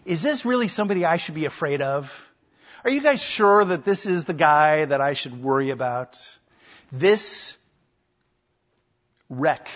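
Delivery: scoffing at the accusers, quick and dismissive; mock scornful Pilate. Preacher voicing Pilate's sarcasm to the priests, scornful. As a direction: sneer as Pilate mocking the prisoner. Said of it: "as if to say".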